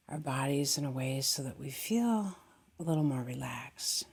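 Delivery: calm, gently guiding meditation voice; settled meditation guidance with long silences; guided meditation. Acted. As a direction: ease listeners into stillness, unhurried.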